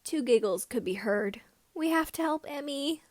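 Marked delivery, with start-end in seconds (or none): none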